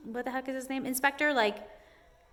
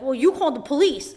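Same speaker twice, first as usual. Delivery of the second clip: louder, higher mock snotty reply; mock snippy inspector; snide retort; 4 semitones higher, 8 dB louder than usual. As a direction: throw the blame back smugly. Quoting the rude inspector.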